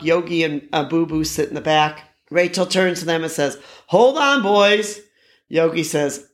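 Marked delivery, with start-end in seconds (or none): 3.9-5.0 Rachel's voice. Retold or imitated. Rachel calls to boys in truck.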